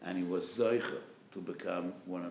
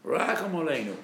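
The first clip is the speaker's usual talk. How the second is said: rising, louder pleading for mercy; desperate plea; 3 semitones higher, 6 dB louder than usual. Acted. Preacher voicing the congregation's plea, rising cry. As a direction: cry it out, climbing to the top. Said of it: "And we say".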